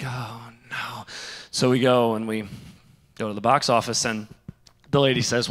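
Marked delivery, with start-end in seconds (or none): 0.0-1.1 dismayed. Retold or imitated. Realizing tickets are fake.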